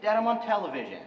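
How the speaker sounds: exasperated yell. Acted. Son to his dad during a live quiz show, exasperated yell. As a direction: yell it at your father, half restrained. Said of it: "Don't yell at me".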